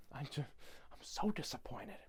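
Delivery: very soft, hurt-sounding aside; quiet mock disappointment. Augustus reacting to chaos, quiet mock disappointment. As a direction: say it small and let down. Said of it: "He's just like".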